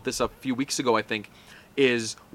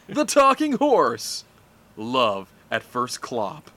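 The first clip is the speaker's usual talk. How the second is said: trailer voice; 3 semitones lower, slower than usual. Acted. Mock movie trailer announcer.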